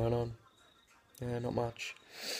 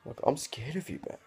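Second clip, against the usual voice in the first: sarcastic mockery; 2 semitones higher than usual. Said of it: "I reply with".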